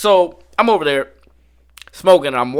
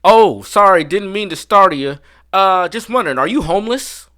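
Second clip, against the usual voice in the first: polite groundskeeper; 5 semitones higher, 4 dB louder than usual. Retold or imitated. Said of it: "Then he says to me".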